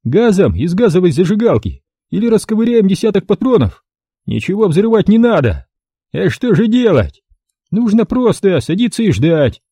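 high, firm verdict; high squeaky man decisive; categorical squeak. A narrator's reading. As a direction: lay down the decision. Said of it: "Вынес категоричное решение".

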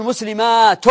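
مسلمات said "muslimaaatun", long aa and final n; tanween ending. Shown as a demonstration. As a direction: stretch the aa in مسلمات, then land on -tun. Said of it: "فتأتي بالنون".

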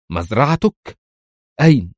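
frown and press him; puzzled. A narrator's reading. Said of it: "التقى حاجباها وهي تسأله". (سؤال مستغرب يعلو في آخره)

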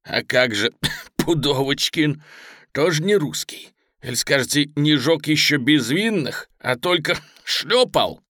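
spiteful, choking sarcasm; bitterly mocking. Pinned lieutenant retorts about Pudovochkin, bitterly mocking. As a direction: sneer through a choked, angry laugh. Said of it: "поперхнулся злым смехом".

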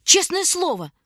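high, loud earnest cry; earnest exclaim. Acted. Girl swearing to the stranger, high and loud.

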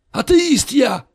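high, loud indignant cry; cried out. A narrator's reading. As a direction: shout it in protest. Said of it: "вскричал Ричи".

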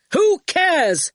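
high, loud, scornful cry; angry shout. A narrator's reading. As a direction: shout it dismissively. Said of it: "shouted Archer".

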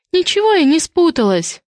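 high, tearful denial; whiny protest with tears in the voice. A narrator's reading. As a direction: deny it high-pitched, close to tears. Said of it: "со слезами в голосе".

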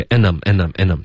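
"and I'm" reeled off quickly as un-num; fast, reduced and I'm, D dropped; everyday weak form. Shown as a demonstration. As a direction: rattle off and I'm in its spoken short form. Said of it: "都会发and I'm".

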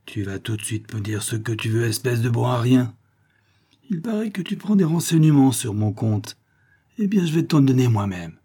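a brute pinning a man, muttering menace; growling giant. Acted. Giant grumbles threats at the pinned detective.

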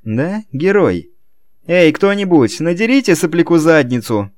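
издёвка. A narrator's reading. Роберто издевается над охранником.

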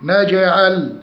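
نجعل with a bouncing j; qalqalah on jeem. Shown as a demonstration. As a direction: echo the j in نجعل slightly. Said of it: "قلقلة الجيم".

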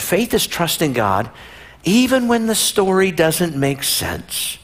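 slow dictation. Shown as a demonstration. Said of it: "I know some of you are writing that down".

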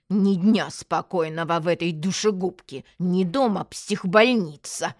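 mildly grumpy complaint; a touch of cranky muttered protest; loud grumbling. Acted. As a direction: grumble aloud to nobody in particular. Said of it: "громко проворчала".

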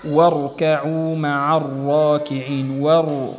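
slow chanted واركعوا مع الراكعين, hamza dropped; Quran recitation. Shown as a demonstration. Teacher recites to show the silent connecting hamza. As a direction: intone the verse, gliding over the hamza. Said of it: "مثلًا قوله تعالى".

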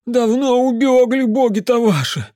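put-on high, loud superstitious drunken rant; the drunk uncle warning the mage about creatures; ranting drunk peasant. A narrator's reading. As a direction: grumble darkly about the volcanoes.

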